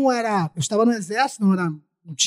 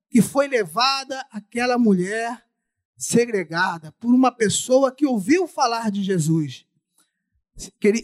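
ordinary talk

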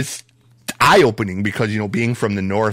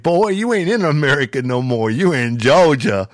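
lightly voiced Southern lawman, pitch a bit raised; Southern sheriff; 4 semitones higher than usual. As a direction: quote the sheriff with a Georgia twang. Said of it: "when the sheriff said that".

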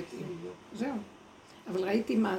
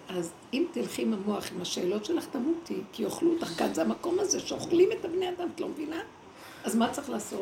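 inner voice warning; 4 semitones higher than usual. Retold or imitated. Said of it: "ואז הוא אומר לי".

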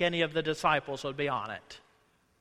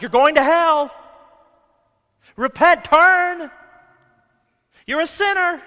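shouted high and loud, hammed up; mock fire-and-brimstone yelling; mock street preacher shout; 11 semitones higher, 14 dB louder than usual. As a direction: yell it like a campus street preacher. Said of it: "they shout and they shout like".

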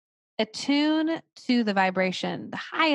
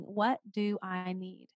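soft, slow self-check; 5 dB quieter, slower than usual. Shown as a demonstration. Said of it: "pausing and saying".

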